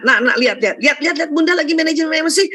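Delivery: mother mockingly calling child to watch her, lightly hammed; mock mother showing off. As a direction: playfully mimic a mom demonstrating calm. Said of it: "kan nggak gitu".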